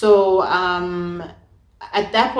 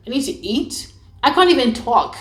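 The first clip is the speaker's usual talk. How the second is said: mock tearful protest, higher and drawn out; slow-motion crying; 5 semitones higher, 3 dB louder than usual. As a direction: whine it slowly as if too weak to cry. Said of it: "this crying is like a slow motion crying".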